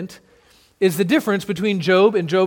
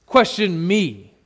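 mock arrogant Jesus; 2 semitones higher than usual. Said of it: "He doesn't say".

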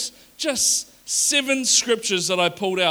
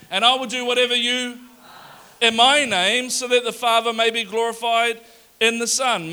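louder, livelier scripture read; more enthusiastic read; 2 semitones higher, 5 dB louder than usual. Shown as a demonstration. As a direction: read it again with more energy. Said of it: "Let's try that again".

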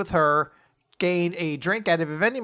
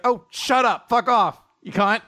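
higher, louder mock snap; mock angry snap; 6 semitones higher, 4 dB louder than usual. Imagining Asumi snapping at her friend, mock angry. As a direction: fire back a fake-furious retort.

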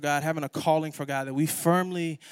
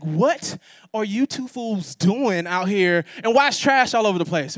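mom scolding; 3 semitones higher, 4 dB louder than usual. Retold or imitated. Mom scolding caught kids.

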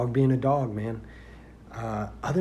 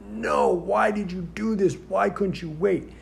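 much higher, slow exasperated rebuke; mad; 8 semitones higher than usual. Retold or imitated. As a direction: scold him in disbelief. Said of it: "I was so mad".

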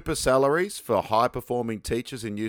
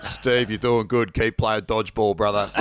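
PE teacher voice. Retold or imitated. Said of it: "two P E teachers going".

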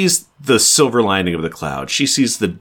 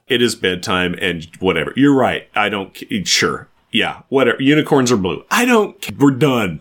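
exasperated parent giving up. Retold or imitated. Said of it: "a parent because he gave up".

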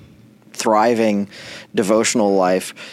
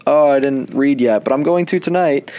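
lightly acted excuse, pitched higher; excuse-making; 4 semitones higher than usual. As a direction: make a sheepish excuse, voice lifting higher. Acted excuse to accountability partner.

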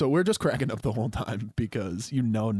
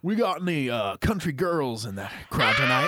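country singer calling out to the crowd; lightly hammed-up stage patter, pitched up; 4 semitones higher than usual. Country singer asking the crowd for girls, playful stage call. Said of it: "I'm the country singer now".

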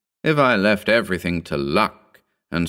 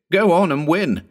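ecstatic cry; 9 semitones higher than usual. A narrator's reading. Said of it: "snapping his fingers in ecstasy".

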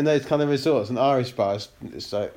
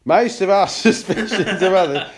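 louder mock Scottish Connery voice; Sean Connery Scottish accent; 4 semitones higher, 6 dB louder than usual. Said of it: "Sean Connery, Scottish".

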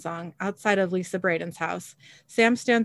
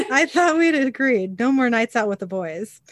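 laughing, higher mock-nagging partner; mock jealous spouse; 6 semitones higher, 4 dB louder than usual. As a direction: tease him like a jealous spouse through laughter. Crowley voiced, mock jealous spouse.

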